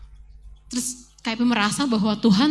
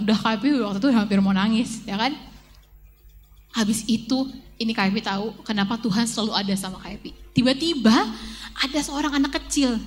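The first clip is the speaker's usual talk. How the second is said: usual speaking voice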